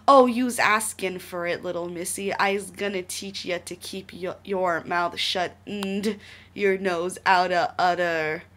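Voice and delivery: loud, slow thug snarl; growling thug. Acted. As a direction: menace her like a street thug. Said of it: "he growled".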